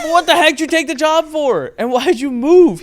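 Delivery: what the heck, half-laughing outrage; mock exasperation. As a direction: throw the question back in disbelief. Retold exasperated question to Jeremy.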